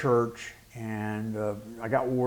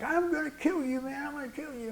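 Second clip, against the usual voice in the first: much higher, imitated threat; mock threat; 3 dB quieter than usual. The young man threatening the pastor after the body slam, imitated. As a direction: mimic the young man's furious threat. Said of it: "he's like".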